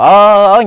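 retold startled "ơ" from a bad dream; imitated nightmare cry. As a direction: imitate a sleeper crying out wordlessly. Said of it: "bà mới la lên".

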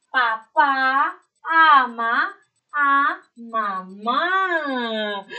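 "Papá ama a mamá" read very slowly, each word stretched and loud; slow reading aloud. Shown as a demonstration. Teacher reading the sentence aloud to young pupils, slow and drawn out. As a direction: read it out syllable by syllable for little kids. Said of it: "vamos a ver qué oración salió".

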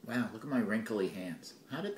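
talking while chewing; mouth full. Real, not acted. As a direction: speak around a mouthful of food. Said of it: "I'm gonna stuff something in my mouth right now".

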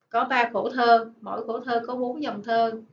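ordinary delivery

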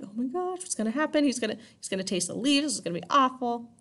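high, panicky mock fretting; panicked townspeople. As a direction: fret high like scared villagers. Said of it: "they're all freaking out".

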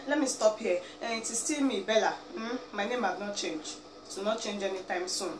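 ordinary talk, nothing marked

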